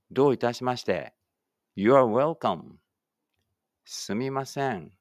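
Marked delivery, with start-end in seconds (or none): 1.8-2.8 slow, carefully spaced English for the class to repeat; slow model reading. Shown as a demonstration. Teacher models English for pupils reading aloud together, slow and clear. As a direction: say each word slowly and clearly, like a teacher modeling. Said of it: "一緒に声出してください".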